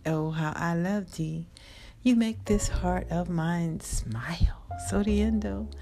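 a lightly performed, heartfelt prayer poem read aloud, some lines whispered; spoken prayer poem. Acted. Reading her prayer poem to God for viewers, heartfelt. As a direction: pour out a loving poem to God, half sung in feeling.

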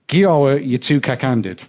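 Yorkshire dialect saying, demonstrated clearly; best Yorkshire accent. Shown as a demonstration. Host repeats his sister's saying for guest, best Yorkshire accent. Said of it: "in my best Yorkshire accent".

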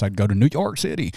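put-on a light New York accent on New York City; a hint of a New Yorker's twang. Joking about salsa, a mild New York accent. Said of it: "Why was that your New York accent?".

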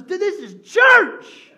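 put-on slow, high and loud, in a dry English accent. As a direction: drawl it like a laid-back English musician. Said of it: "In a really dry English accent".

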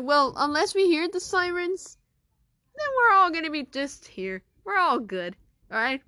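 loud, high reassuring announcement; calm the kids down firmly; reassuring teacher. Acted. Adult calming the students.

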